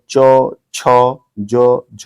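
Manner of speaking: च, छ, ज, झ with the tongue touching the palate; palatal sounds. Shown as a demonstration. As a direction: demonstrate palatal च, छ, ज, झ one at a time. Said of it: "ये तालु को टच करता है".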